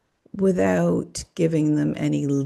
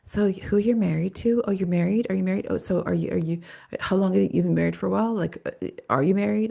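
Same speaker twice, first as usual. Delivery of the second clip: mock leading psychic; 3 semitones higher than usual. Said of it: "people that are leading out there saying".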